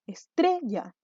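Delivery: "Estrella" as es-TRE-lla, falling at the end; stress on middle syllable. Shown as a demonstration. Teacher showing where the tonic syllable is, "Estrella" stressed on TRE. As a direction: mark the TRE of "Estrella" clearly. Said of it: "¿Dónde estaba la sílaba tónica? Al medio".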